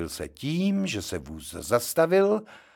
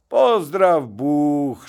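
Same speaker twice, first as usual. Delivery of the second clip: a touch of friendly, slow hello; friendly greeting; 4 semitones higher, 6 dB louder, much slower than usual. Acted. Drunk Janík greets the room, friendly and slow. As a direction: greet them like old pals, unhurried. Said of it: "řekl přátelsky".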